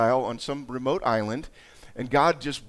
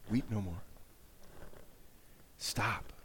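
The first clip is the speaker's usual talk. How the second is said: low, soft consolation; 5 semitones lower, 12 dB quieter than usual. Acted. Elder consoling weeping John.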